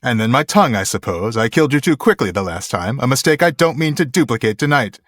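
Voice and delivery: haughty villain interrupting; lightly acted, impatient prince; Chris Sarandon. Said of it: "I can't really do Chris Sarandon".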